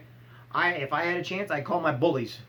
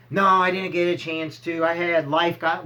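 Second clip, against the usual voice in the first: loud, drawn-out mock excuse; hammed-up excuse, slow and loud; mock excuse-making; 6 dB louder, slower than usual. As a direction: act out a feeble excuse at full volume. Acted excuse to workout partner.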